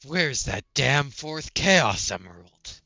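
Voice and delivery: slow, brooding edgy hedgehog growl; slow brooding antihero voice; Shadow voice. Shown as a demonstration. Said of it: "Say it in Shadow's voice".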